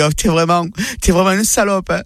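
acted outrage, rising in pitch; indignant scolding. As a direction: tell off your sister, mildly hammed-up. Wife scolds sister found hiding. (engueulade indignée)

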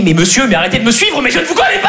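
rising to a high-pitched protest; mock panicked cry. Girlfriend pretends a stranger follows her, high mock-distressed cry. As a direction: cry out like a pestered stranger, playfully. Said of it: "et me crier".

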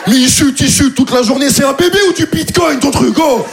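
unspoken rage. Retold or imitated. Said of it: "je peux pas dire tout ça".

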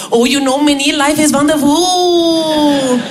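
put-on slow, blissful Indian-accented English; lightly imitated Indian accent; Indian colleague. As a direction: float on pure contentment. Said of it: "Il arrivait au taf".

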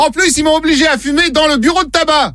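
a lightly voiced aggrieved patient; mock patient voice. Prankster playing the patient to the shopkeeper, mild protest.

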